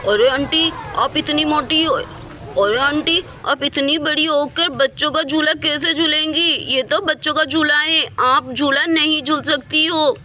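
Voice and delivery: lightly voiced objecting kid; child in the park. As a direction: object like a cheeky child to a grown-up.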